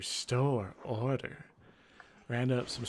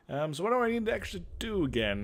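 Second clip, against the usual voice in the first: 1 rushed confused question; 7 semitones higher, faster than usual. Acted. Player confused, asking again fast.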